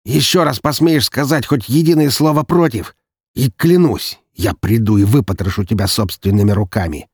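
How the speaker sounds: loud, cold threatening voice; menacing threat. Acted. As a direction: threaten him with contained fury. Daniil threatening his brother.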